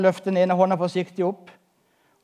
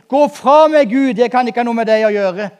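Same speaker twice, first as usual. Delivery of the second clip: retold cry out; 4 dB louder than usual. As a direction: cry out to God as if retelling it. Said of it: "jeg hadde ropt". (ropt ut, høyt og inntrengende)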